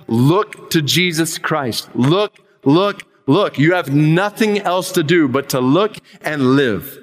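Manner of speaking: a mild mock shout, slow and urgent; pulpit shout. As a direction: call out "look" like a chapel preacher, half-hearted. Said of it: "he shouted as only a primitive Methodist could do".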